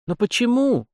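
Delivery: very high, bewildered question; astonished. A narrator's reading. Youth learning his girl will die first, astonished. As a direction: shoot the pitch right up in amazement. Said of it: "изумился Витька".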